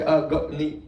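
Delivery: light comic chant of Ah, go, ni; a hint of a silly chant; mock three-mouthed voice. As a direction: playfully voice the syllables as if from three mouths. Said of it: "three mouths to say".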